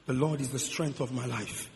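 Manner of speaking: low, soft scripture quote; meditative recitation. Acted. Sick person meditating on scripture.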